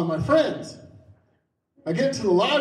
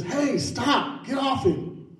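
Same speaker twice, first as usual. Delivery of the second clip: retold yell; 6 semitones higher, slower than usual. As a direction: call out like a kid breaking up a fight. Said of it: "He yells out to his friend".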